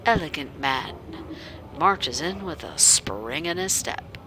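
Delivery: even, wry first-person narration; game story narration. A narrator's reading. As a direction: read the heroine's inner voice dryly. Reads game narration as protagonist.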